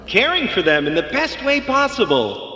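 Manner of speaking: rising rousing pep talk; roaring rallying speech. Acted. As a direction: build it up to a rallying cry. Vet rallying the crowd.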